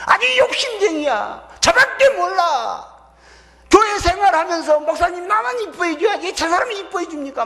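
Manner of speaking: mock the selfish brother's whining; mocking whine. Preacher mocking the elder brother's selfish whining, high and sneering.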